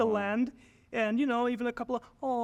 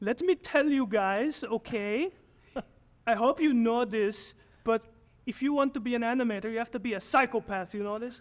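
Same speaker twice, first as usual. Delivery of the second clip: slight put-on Belgian accent, teacher's voice. Retelling what a 2D animation teacher said on the first day: Belgian accent. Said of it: "let me do a little Belgian accent here".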